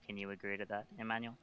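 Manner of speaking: soft, gentle in-character apology; sighing apology. Acted. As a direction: speak softly, apologise and reassure him. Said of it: "she sighs and she goes".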